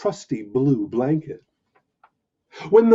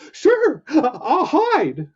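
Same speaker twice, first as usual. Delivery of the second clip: higher, halting little voice; shy skunk; 10 semitones higher, 4 dB louder, much slower than usual. Acted. Timid skunk agreeing to hide, high and halting. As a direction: stammer it out shyly and slowly.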